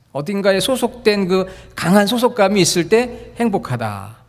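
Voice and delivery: normal talking voice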